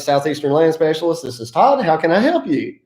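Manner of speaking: friendly, energetic business greeting; smile-in-the-voice phone pickup; upbeat phone greeting. Shown as a demonstration. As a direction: answer like you're glad they called. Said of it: "make somebody feel like you're excited to get that phone call".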